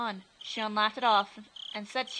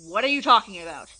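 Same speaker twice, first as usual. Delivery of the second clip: exasperated; 11 dB louder than usual. Acted. Keiichi losing patience.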